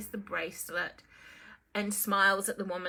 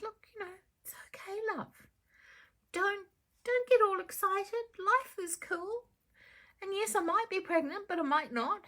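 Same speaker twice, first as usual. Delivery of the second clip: Empress reassuring; 9 semitones higher than usual. Acted. Empress answers Phyllis.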